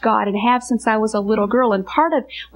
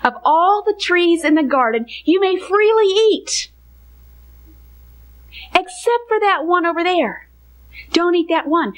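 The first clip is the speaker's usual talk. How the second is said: God giving the command; 4 semitones higher than usual. Retold or imitated. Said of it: "back up to what God did say".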